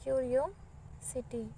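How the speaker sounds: क्यूरियोसिटी said slowly, each syllable drawn out for the class; slow repeat. Shown as a demonstration. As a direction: stretch out क्यूरियोसिटी so students can copy it. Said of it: "क्यूरियस को आप क्या लिखते बोलो". (क्यूरियोसिटी धीरे-धीरे, हर अक्षर खींचकर)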